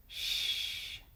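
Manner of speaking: whispered shush. Acted. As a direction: hush them sharply. Audience shushes.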